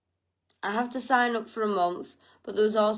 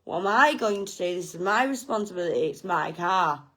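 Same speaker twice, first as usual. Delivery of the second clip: panicked; 4 semitones lower, faster than usual. Retold or imitated. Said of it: "and I'm panicking".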